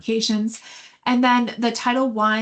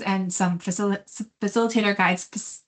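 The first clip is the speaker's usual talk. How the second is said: real stumble over the words; tongue-tied false starts. Real, not acted. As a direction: trip on the first syllables, restart and break off. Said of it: "I'm getting all tongue-tied".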